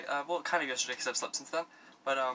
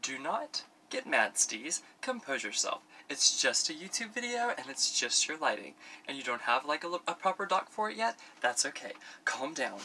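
self-soothing pep talk. Real, not acted. Talking self down after lighting fell.

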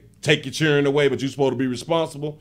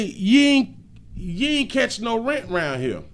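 mock quote; 6 semitones higher, slower than usual. Quoting woman from the video.

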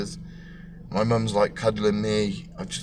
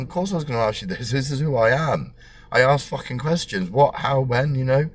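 defiant; 5 semitones higher, 3 dB louder than usual. Retold or imitated. Defiant inner thought.

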